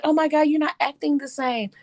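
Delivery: high-pitched imitation of surprised critics; put-on "oh my God" astonishment; mock shocked reaction. Mimics people reacting to her answer.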